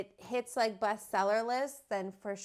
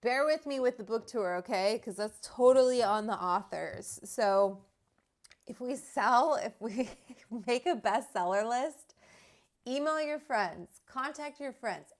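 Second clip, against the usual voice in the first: eager plea; 3 semitones higher, 7 dB louder than usual. Real, not acted. Pleading for book sales.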